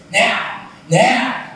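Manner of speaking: high, loud mock yell of "Now!"; retold yell. Girlfriend in the night, a high retold yell. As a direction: yell it out like a woman in the throes. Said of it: "she yells".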